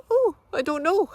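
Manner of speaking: high, loud mock French shrug; hammed-up French-accented don't-know. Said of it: "in his French accent".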